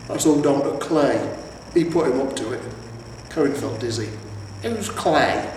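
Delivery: a troll blaming the merchant; lightly voiced aggrieved troll; grumbling troll. Troll explains, louder.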